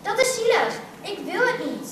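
mildly shouted objection; protesting yell. A narrator's reading. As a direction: cry out in protest, pitch leaping up. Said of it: "schreeuwde ze".

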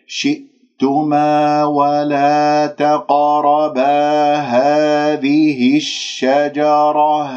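very slow, sustained recitation; demonstrated tajweed recitation. Shown as a demonstration. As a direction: stretch each long vowel and hum the noon. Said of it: "هذه كلها أجيبها المدود الطبيعية". (ترتيل تعليمي بطيء)

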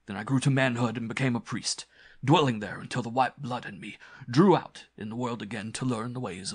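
lightly voiced scheming villain; earnest, strained self-justification; desperate cult priest, persuading. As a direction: argue urgently, then recount your past. Villain argues, tells his past.

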